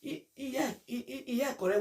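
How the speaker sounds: high, laughing fake agreement; imitating a giggly yes-man; mock agreeing laugh. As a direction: play along with a chuckle, mocking. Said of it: "You go say".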